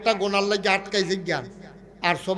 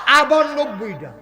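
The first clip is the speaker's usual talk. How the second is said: higher, louder, slow; emphatic shout; 6 semitones higher, 7 dB louder, slower than usual. Real, not acted. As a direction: proclaim it big. Preacher stresses reward.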